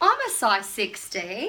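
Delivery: slow, loud, smug, self-assured boasting tone.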